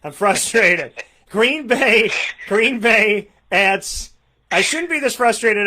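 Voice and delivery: loud, exasperated groan of frustration, slowing on the team name; frustrated. Real, not acted. Fantasy host fuming over his team on his birthday, loud and frustrated. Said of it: "I'm just frustrated".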